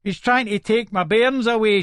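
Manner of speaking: high-pitched, mildly acted screech. Mother tells police about bairns, mild screech. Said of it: "she screeches".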